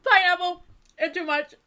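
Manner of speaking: pained by sour candy; overwhelmed by sourness, half laughing; eating sour candy. Real, not acted. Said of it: "My safe word".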